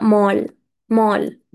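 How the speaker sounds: مول with an open "aw" vowel, as in English; correct English mall. Shown as a demonstration. Teacher modelling for students, مول pronounced as English "mall". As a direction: model مول as "mawl", twice. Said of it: "عرفت إن هي بتنطق مول".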